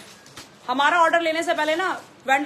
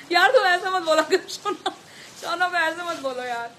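laughing through a pleading protest; half laughing, half pleading with the chat; laughing plea; 3 semitones higher than usual. Real, not acted. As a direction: beg them to stop while giggling.

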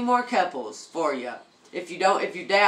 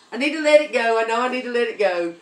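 emphatic; 5 semitones higher, 6 dB louder, faster than usual. Real, not acted. Emphatic self-talk, repeated faster.

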